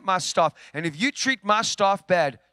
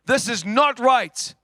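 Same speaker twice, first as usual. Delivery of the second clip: raised, slowed, indignant cry to God; retold angry prayer, raised and slow; 4 semitones higher, 4 dB louder than usual. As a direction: plead in protest, louder and higher.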